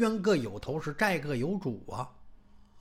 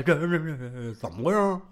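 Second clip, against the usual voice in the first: ordinary delivery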